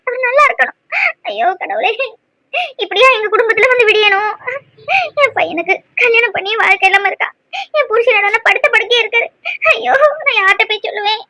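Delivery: tearful wailing to God; crying. Acted. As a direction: lament through tears. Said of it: "அம்மா அழாதீங்கம்மா". (அழுதபடி புலம்பல்)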